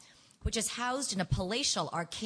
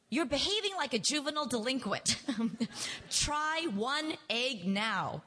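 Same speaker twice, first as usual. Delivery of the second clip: temper rising; 5 semitones higher than usual. A narrator's reading. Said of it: "I felt my temper rising".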